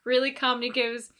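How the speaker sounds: ordinary delivery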